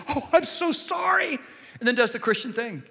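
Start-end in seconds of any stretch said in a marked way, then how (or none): 0.1-1.4 high, flustered apology in his wife's voice; embarrassed wife. Retold or imitated. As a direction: squeak it out like a mortified wife. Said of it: "She goes".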